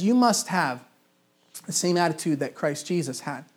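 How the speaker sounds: MUST stressed, slowing down on "the same attitude"; quoting Paul with weight. Retold or imitated. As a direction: lean on "must" like a command. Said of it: "And so Paul says".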